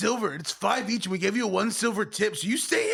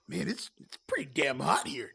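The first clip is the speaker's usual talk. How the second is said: muttering to himself; 6 semitones lower, 5 dB quieter than usual. Acted. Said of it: "he mutters to himself".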